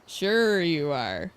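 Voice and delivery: "Sure you are" slow, drawn out, rising at the end; sarcastic echo. Shown as a demonstration. Gamer repeating Rikia's jab, slow and sarcastic.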